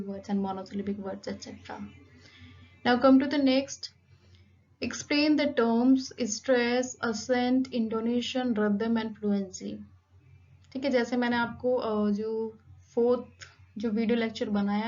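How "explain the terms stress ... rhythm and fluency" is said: slow dictation of the question; reading exam question. Acted. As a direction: read the question out for students to copy. Reads next exam question.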